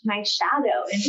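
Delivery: laughing through the words; amused, breaking into laughter; giggling as she repeats it. Real, not acted. Laughing at the shadow question.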